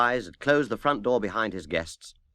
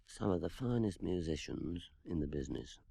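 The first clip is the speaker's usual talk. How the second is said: much softer, confiding aside; whispered; 5 semitones lower, 12 dB quieter than usual. Acted. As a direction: whisper it proudly to Mr Wise. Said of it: "He turned to Mister Wise and whispered".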